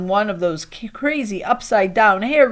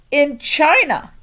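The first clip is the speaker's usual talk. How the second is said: slow, higher, condescending; smug deadpan; 7 semitones higher, 6 dB louder, slower than usual. Acted. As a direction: state the obvious slowly. Jason's deadpan answer.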